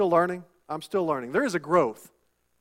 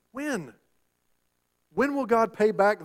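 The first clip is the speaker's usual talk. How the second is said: pleading, higher When?; higher repeated question; 4 semitones higher than usual. Acted. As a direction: lift the second When? up high.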